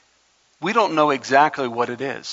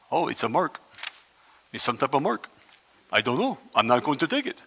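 a lightly voiced man alone on an island, softer and musing; island hermit; 6 dB quieter than usual. Preacher imagines himself alone on an island, lightly voiced castaway. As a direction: mumble it to yourself like a castaway who shrugs it off. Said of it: "I don't know if that's what they sound like on an island".

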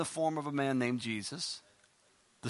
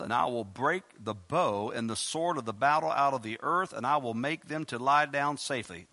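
lightly raised reading voice; scripture reading; 3 dB louder than usual. Acted. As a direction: read the verses out like a preacher. Reads scripture aloud.

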